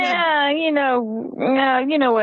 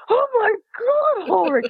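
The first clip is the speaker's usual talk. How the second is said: horrified mom; 11 semitones higher than usual. Retold or imitated. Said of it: "I went".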